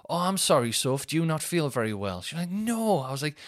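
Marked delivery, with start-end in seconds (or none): 0.1-2.2 higher-pitched apologetic fussing; mock concern. Acted concerned reply to woken partner. 2.5-3.0 high-pitched moaning no; retold grumpy refusal. Sophie's grumpy retold answer.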